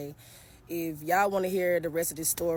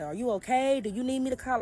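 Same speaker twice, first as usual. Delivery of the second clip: imagined concern; 6 semitones higher than usual. Retold or imitated. Imagined neighbor asking kindly.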